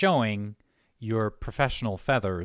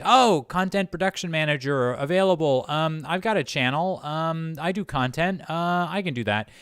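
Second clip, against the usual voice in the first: higher-pitched hopeful volunteer; imagined eager applicant; 5 semitones higher than usual. Retold or imitated. Host voicing hobbyists who think they qualify, eager mimicry. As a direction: pipe up like a keen amateur pitching themselves.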